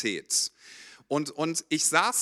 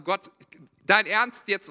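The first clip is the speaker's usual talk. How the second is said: exasperated; 4 semitones higher, 5 dB louder, slower than usual. Retold or imitated. Exasperated prayer retold.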